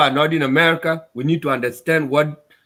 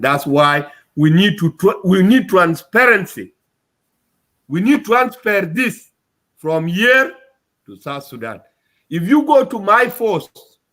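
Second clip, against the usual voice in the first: upset; 2 semitones higher, 3 dB louder than usual. Real, not acted. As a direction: push it out because you're upset. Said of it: "I talk like this because I'm upset".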